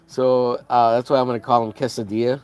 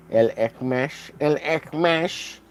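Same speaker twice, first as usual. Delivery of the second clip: dopey voice; slower than usual. Shown as a demonstration. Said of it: "with a retarded voice".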